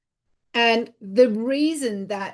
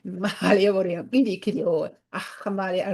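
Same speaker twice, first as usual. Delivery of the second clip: channeled language; 2 semitones lower than usual. Real, not acted. Channeling her guide to viewers, a murmured incantation. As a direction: let the sounds come as if channeled. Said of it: "a reason I speak like that".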